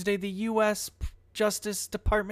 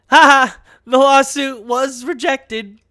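loud, slow gloating laugh through the words; laughing with glee at the rejection; gleeful laugh; 6 semitones higher, 13 dB louder than usual. Real, not acted. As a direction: crow over the news, laughing. Gleeful over Trump's rejected lawsuit.

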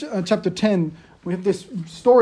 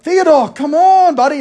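hammed-up weary dad calling; exasperated call; 9 semitones higher, 7 dB louder than usual. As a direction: drag it out, fed up but still fond. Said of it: "I'm like".

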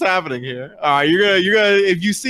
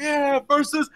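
high, drawn-out name call; fight announcer; 12 semitones higher, slower than usual. Acted. Game master introducing the second finalist, announcer. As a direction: stretch the fighter's name out for the crowd.

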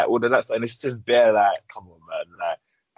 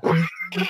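a coy little hum of approval; breathy mm-hmm; 5 semitones higher than usual. Retold or imitated. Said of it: "like that".

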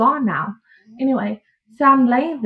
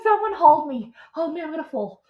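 higher, pleading hold me; mock panicky plea; 5 semitones higher than usual. Mother in labor begging staff, mock pleading.

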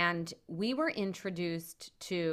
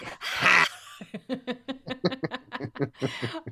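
hoarse raspy laugh; 6 semitones higher, 5 dB louder than usual. Real, not acted. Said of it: "sound like a smoker's laugh today".

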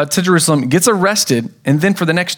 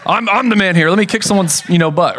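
tough guy; 5 semitones higher than usual. Pretend. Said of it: "I would jump in and be like".

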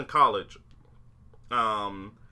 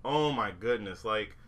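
normal talking voice

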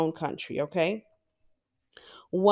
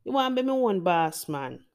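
put-on Jamaican accent. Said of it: "'Cause that's what you'd say".

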